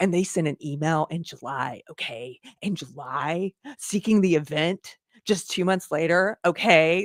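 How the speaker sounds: slow, loaded, conspiratorial, suspicious reading. Describing how she reads a passage aloud, imitating her mock-suspicious tone. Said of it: "saying it as if there's something super suspicious about it".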